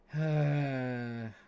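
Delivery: long, voiced sigh; exasperated sigh. Real, not acted. Streamer watching his team lose, exasperated long sigh. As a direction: let out a loud drawn-out sigh.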